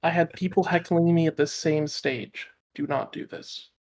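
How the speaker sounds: soft calm warning, dropping to a whisper; calm and quiet. Acted. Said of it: "I calmly say".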